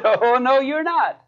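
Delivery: high-pitched mock rebuttal; imitating a sister setting him straight; retold contradiction.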